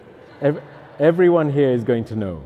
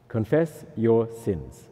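CONFESS, YOUR, SINS, each word slow and weighted; slow, deliberate stress on every word; 2 semitones lower, slower than usual. Shown as a demonstration. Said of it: "by emphasizing each word".

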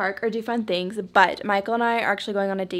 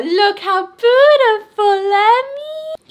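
squeaky praising a dog; 9 semitones higher, 10 dB louder, much slower than usual. Real, not acted. Gushing over dog in collar.

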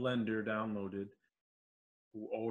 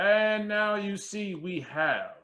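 excited reveal; 10 semitones higher, 9 dB louder, slower than usual. Real, not acted. File finally loads after fix.

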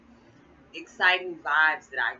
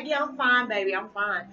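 laughing, higher and louder reassurance; 5 semitones higher, 5 dB louder than usual. Retold or imitated. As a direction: laugh it off to the kids.

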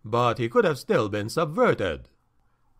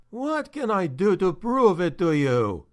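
higher, pleading unhappy voice; miserable; 4 semitones higher than usual. Acted. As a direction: plead in despair. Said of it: "sounding miserable".

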